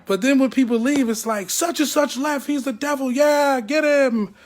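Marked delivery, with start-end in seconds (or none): 1.5-4.3 higher, egging the crowd on until a slow shout; mock gossip mob. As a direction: whip up the pack against him. Mocks people turning on leavers.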